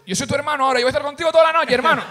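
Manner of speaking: high, lightly voiced stoner pal; hint of a clingy stoned buddy; imitated stoner. Drugged stranger befriending him, high clingy voice.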